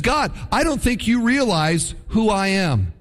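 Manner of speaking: mildly pleading protest; hint of a complaint to God; Gideon protesting. Gideon telling God he's unqualified, mildly protesting. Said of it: "He says".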